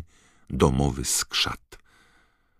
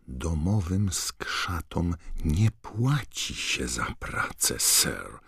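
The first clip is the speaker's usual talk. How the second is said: slow elf voice fading to a breathless hush; a shocked house-elf dropping her voice; slow shocked elf, trailing to a whisper; scandalised elf squawk; 3 semitones higher, slower than usual. Acted. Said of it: "zaskrzeczała".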